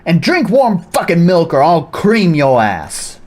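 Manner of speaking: a lightly voiced barking commander addressing recruits; gruff drill commander. Commander welcoming new recruits, lightly gruff. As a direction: play it as a bossy cat commander.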